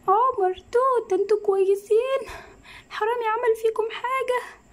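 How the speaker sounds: worried sick about husband and daughter; alarmed mother checking on her family; panicked worry. Acted. Mother finds family tied up.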